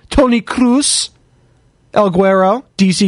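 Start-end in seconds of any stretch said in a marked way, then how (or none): 0.1-1.1 slow put-on German accent, pitched up. Host showing off to Andy, in a German accent. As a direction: draw the name out in a playful German accent. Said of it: "Andy thinks my accent's great".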